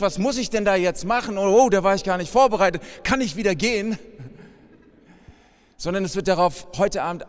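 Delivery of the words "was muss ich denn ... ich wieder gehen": mock panicked guest, a little faster and laughing; lightly voiced unprepared guest; nervous listener. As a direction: act out the flustered newcomer wanting to leave. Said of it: "wie du denkst".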